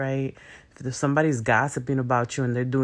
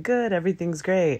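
chirpy service-desk reply, a little higher; fake cheerful customer-service answer; 4 semitones higher than usual. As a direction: put on the polite coworker cheer. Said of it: "customer service slash coworker answer".

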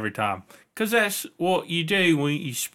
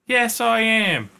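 high, slow put-on British accent; 10 semitones higher, slower than usual. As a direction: answer in a playful, drawn-out British voice. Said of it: "you're speaking with a British accent".

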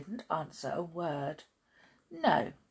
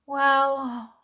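higher, slow doleful dog voice; sad dog; 8 semitones higher, 5 dB louder, slower than usual. A narrator's reading. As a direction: lament slowly as a sorry little dog. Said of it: "said the dog sadly".

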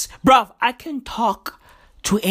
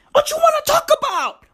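high sing-song call. Acted. Sing-song refrain of his rant.

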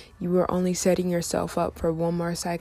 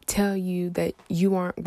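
louder, rising preacher-like push; fired-up pep talk; 7 dB louder than usual. Real, not acted. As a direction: hype them up, getting louder.

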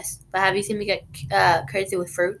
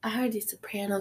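hushed whisper; 6 dB quieter than usual. Real, not acted. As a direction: whisper it like a secret. Whispered joke to listeners.

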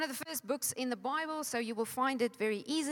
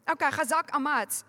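psyching up; 2 semitones higher, 4 dB louder than usual. Shown as a demonstration. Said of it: "I psych myself up".

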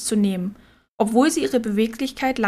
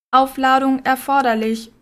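clangy robot voice; 2 semitones higher than usual. Acted. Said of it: "die metallische Stimme".

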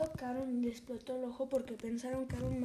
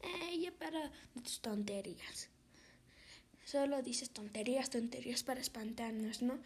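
dismissive hush; 6 dB quieter than usual. Acted.

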